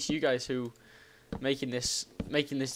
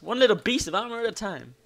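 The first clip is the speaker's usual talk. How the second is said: higher, lilting delivery; playful lilt; 5 semitones higher than usual. Pretend. Player celebrating gradual armour progress, playful lilt. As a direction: lift "little piece" in a playful lilt. Playful take, then low repeat.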